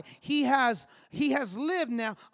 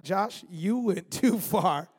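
slow, lower, laughing through it; laughing self-scold; 4 semitones lower, much slower than usual. Retold or imitated. Father catching himself acting like his dad, laughing slowly. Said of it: "And I'm like".

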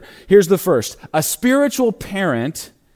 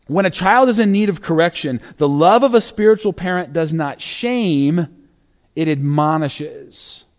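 deliberate reading. Shown as a demonstration. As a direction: weigh each word, slowing at the end. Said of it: "repeated faster".

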